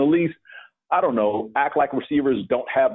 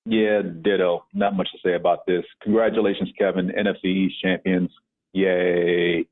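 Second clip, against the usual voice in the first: grudging congratulations; 5 semitones lower than usual. Real, not acted. Conceding the division to rival fan Kevin, grudging deadpan. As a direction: congratulate them with zero enthusiasm.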